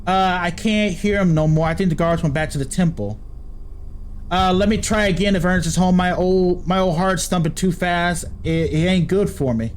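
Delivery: put-on pleading old country man, begging at a door; begging Ernest to let him in, country accent. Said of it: "Why am I speaking in a country accent".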